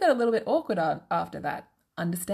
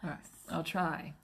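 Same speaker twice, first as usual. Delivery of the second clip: whispering; 2 semitones lower, 7 dB quieter than usual. Real, not acted. Whispered reply.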